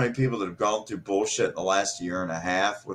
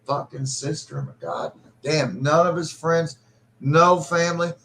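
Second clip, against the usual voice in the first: higher, building to a furious outburst; angry rant; 8 semitones higher, 3 dB louder than usual. Real, not acted. Son raging at his sister for isolating his father, angry. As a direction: let the anger build over each item. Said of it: "angrier and angrier I get".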